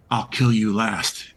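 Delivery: slow, lightly grunted yeti voice; a hint of a slow yeti growl; Yeti's voice. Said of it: "in Yeti's voice".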